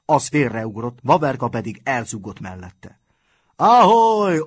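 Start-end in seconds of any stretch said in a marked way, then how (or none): 3.6-4.4 very high, long battle cry; roaring yell. A narrator's reading. Schoolboys cheering on their fighter, yelling. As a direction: bellow it high like a cheering gang. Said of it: "ordították a reálosok".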